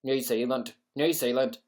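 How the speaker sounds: put-on practising a Kiwi accent; amateur New Zealand twang; attempted New Zealand accent. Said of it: "Try a New Zealand accent".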